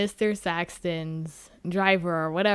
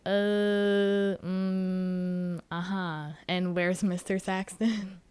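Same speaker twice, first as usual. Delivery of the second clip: awkward stalling; 3 dB quieter than usual. Retold or imitated. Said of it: "staring at this guy like".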